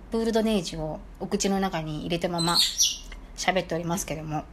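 talking with a mouthful of cookie; mouth full. Real, not acted. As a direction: speak around a mouthful of food.

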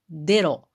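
デロ said de-ro, d for z; Wakayama pronunciation. Shown as a demonstration. Speaker showing how Wakayama folk say ゼロ, デロ with d. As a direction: say デロ with a d, not ze-ro. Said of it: "数字のゼロは".

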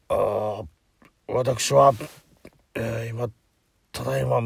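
slurred, slow tipsy announcement; drunk comedy-sketch voice. Retold or imitated. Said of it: "まるでドリフのコントのような".

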